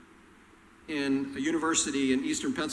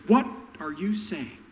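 high, loud, far pitched-up challenge; Frank Costanza; 6 dB louder than usual. Retold or imitated. Frank Costanza arguing with Elaine, shrill loud challenge. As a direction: pick a fight, squeaky and outraged. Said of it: "George's dad, Frank Costanza".

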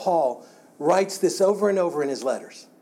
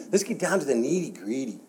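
fake Hispanic accent. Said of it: "his little fake Hispanic accent".

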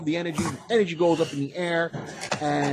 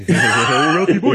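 cartoon bear voice; 9 dB louder, slower than usual. Echoing catchphrase.

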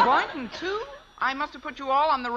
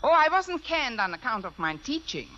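put-on German accent. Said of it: "If I can do a decent German accent".

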